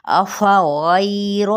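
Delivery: very slow chanted अफा गैर; slow tajweed demo; recited demo. Shown as a demonstration. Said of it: "किस तरीके से अदायगी हुई".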